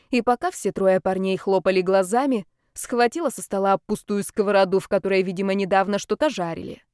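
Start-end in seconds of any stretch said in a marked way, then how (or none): none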